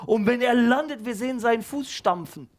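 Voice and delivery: put-on high, fast eager boy with a laugh; excited kid. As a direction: blurt the brilliant idea out. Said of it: "ruft Kalim jetzt rein".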